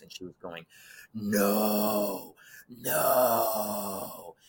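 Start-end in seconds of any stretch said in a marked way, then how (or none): 1.1-4.4 mock bellowing no. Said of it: "This bellowing dark voice was in her lungs".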